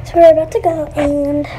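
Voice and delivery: out of breath, panting; gasping for air. Real, not acted. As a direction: speak while catching breath. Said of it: "sorry, I only got a breath".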